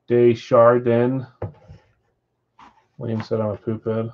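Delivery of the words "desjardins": Desjardins slowly as "day-shar-den"; Americanized pronunciation. Shown as a demonstration. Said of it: "like, an American accent?".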